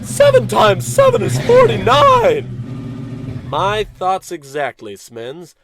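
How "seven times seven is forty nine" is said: very high, slow, loud mechanical robot chant; shrill-free robot announcing at full volume. Acted. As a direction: sing out the sum like a beeping calculator machine. Robot companion reports a calculation.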